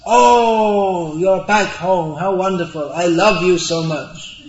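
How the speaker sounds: gushing like a doting wife, lightly voiced. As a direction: coo it sweetly as a fond wife. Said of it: "and the wife says".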